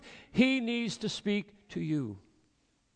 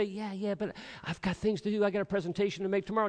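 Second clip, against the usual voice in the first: brushing him off; 3 semitones higher, faster than usual. Retold or imitated. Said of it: "and we say".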